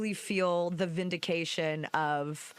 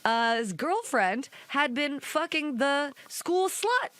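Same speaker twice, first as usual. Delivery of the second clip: dramatic reveal; 6 semitones higher, slower than usual. Real, not acted. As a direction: drag it out like juicy news.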